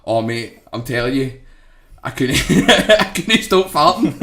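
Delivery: laughing while quoting, slowing down; fighting back laughter; retelling through laughter. Retold or imitated. Retelling Grado's confession while cracking up. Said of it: "He's like".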